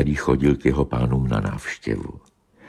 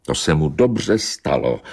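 pitiless. Acted. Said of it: "řekl nelítostně domýšlivý kocour".

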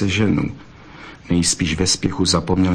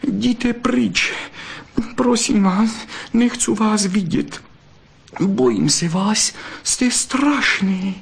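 much higher, shaky-sounding frightened plea, slow at the end; 13 semitones higher, slower than usual. A narrator's reading. Scared vixen telling Zlatohřbítek to go away, fearful. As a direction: push him away out of fear.

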